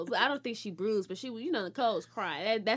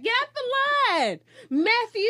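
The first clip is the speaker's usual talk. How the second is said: mock command; 9 semitones higher, 8 dB louder than usual. Ordering kids in lineup.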